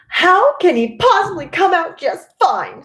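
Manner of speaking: indignant mother snapping in a high loud voice; snapped. A narrator's reading. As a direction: snap it back at him, high and loud. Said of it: "snapped Missus Gloop".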